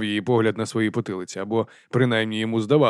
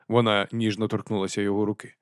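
usual speaking voice

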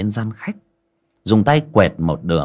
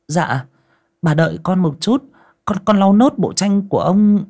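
a lightly higher, humble reply; meek servant; 10 semitones higher, 5 dB louder than usual. Acted. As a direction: answer politely but hesitant. Servant answers mistress. (giọng người hầu lễ phép rụt rè)

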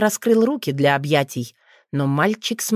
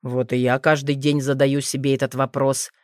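sighing; 4 semitones lower than usual. Acted. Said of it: "вздохнул дракон".

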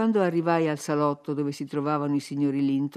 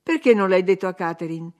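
a louder reproach; scolding; 6 dB louder than usual. Acted. Husband scolding the servant.

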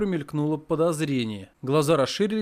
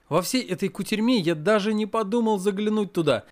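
plain reading voice

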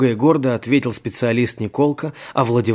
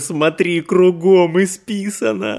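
amazed; 6 semitones higher, slower than usual. A narrator's reading. Nikolka marveling, continued.

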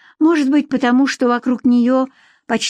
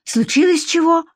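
high, lively question; perking up; 9 semitones higher than usual. Acted. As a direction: ask it with fresh curiosity. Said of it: "оживилась Варя".

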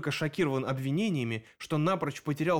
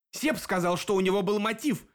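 shout; 6 semitones higher than usual. A narrator's reading. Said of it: "крикнул Дэн".

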